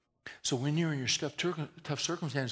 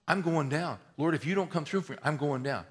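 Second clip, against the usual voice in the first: panicked cry; 2 semitones higher, 4 dB louder than usual. Retold or imitated. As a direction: cry out as if sinking. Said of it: "Here's the thing about storms".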